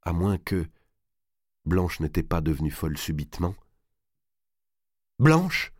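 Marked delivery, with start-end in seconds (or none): 5.2-5.7 high, anxious call rising at the end; raised, uneasy, questioning cry; anguished call. A narrator's reading. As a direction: call the name as a fearful question. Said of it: "répéta Marguerite d'une voix angoissée".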